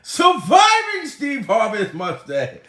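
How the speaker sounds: high, slow, loud shout. Real, not acted. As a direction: belt the catchphrase. Shouts catchphrase after outburst.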